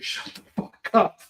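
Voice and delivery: breaking into laughter on the words; laughing. Real, not acted. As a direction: crack up as you get the punchline out. Cracks up retelling friend's joke.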